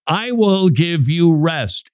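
high, slow proclamation led by "I"; emphatic I. Acted. Answering "You can't work your way there", emphatic "I". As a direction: stress "I" and draw the line out. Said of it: "the Greek language makes this emphatic".

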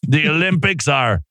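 over-the-top hype announcer read; sports announcer hype. Acted. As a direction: sell it like a big sports promo. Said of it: "it says announcer over the top sports hype tone".

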